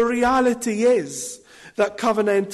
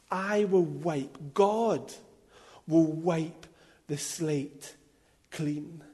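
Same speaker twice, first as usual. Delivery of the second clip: slow, softening and lower, word by word; hushed, solemn promise; 3 semitones lower, 5 dB quieter, slower than usual. Acted. Preacher letting God's promise of a clean slate sink in, hushed and solemn. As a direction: let it sink in slowly, dropping to near-hush.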